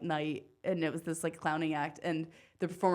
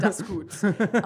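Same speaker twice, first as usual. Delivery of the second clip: "that's gut" in a mock German accent, louder; 2 semitones higher, 7 dB louder than usual. Friend plays along with the German impression, mock German accent. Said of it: "impression of a German person".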